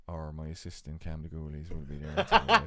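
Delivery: can't keep a straight face; laughing. Pretend. Host laughing through a mock hotline plug.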